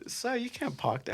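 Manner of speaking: high whispered British imitation.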